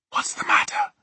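worried whispered question; under-the-breath whisper. A narrator's reading. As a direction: ask it under your breath. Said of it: "whispered in her under-the-breath voice".

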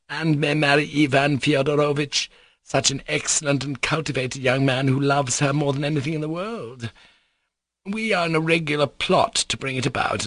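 lightly voiced confiding society lady; gushing confiding lady. Lady lets Alexei in on her plot, gushing lightly. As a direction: confide eagerly, lifted slightly above narration. Madame Hohlakov in story narration.

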